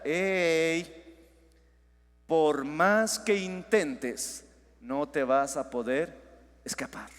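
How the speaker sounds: a hushed, slow, haunting inner voice; eerie imagined voice. Pretend. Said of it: "como que si escucharas una voz ahorita".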